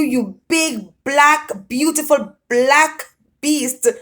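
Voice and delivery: high, slow mock-passionate; hammed-up, high and slow; hammed-up rapture. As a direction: relish every word. Climax of letter.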